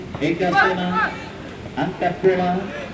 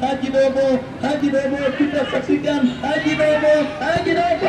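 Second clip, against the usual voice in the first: building excitement; 4 semitones higher than usual. Acted. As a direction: build the calls toward the goal. Repeated name as attack builds.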